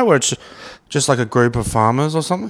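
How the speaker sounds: talking through hiccups; hiccuping between words. Real, not acted. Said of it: "No, sorry, I got the hiccups".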